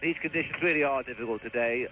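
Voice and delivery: muffled voice, wind in the mic. Real, not acted. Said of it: "if I sound a little bit muffled".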